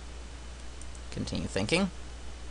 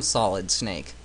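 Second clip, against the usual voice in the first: Solid Snake voice; 6 semitones lower, slower than usual. Retold or imitated. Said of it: "my terrible Solid Snake voice".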